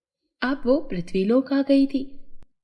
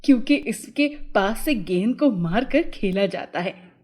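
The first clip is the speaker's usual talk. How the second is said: put-on boy's voice, lower than the narration; boy Chhotu; 3 semitones lower than usual. A narrator's reading. Boy explains football to the fairy, lower character voice. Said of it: "छोटू बोला".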